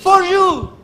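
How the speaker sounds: For you más alto y fuerte; For you en inglés. Shown as a demonstration. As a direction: dilo en inglés, marcando for. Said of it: "En inglés, para que me entienda". (for you en inglés, enfático)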